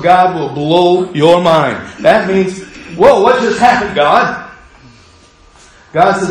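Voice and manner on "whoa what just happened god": mock amazement. Amazed reaction acted out.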